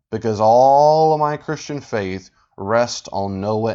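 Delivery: drawn-out mock earnestness; sarcastic emphasis. Real, not acted. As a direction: stretch ALL out slowly with sarcasm. Sarcasm about the clip's argument.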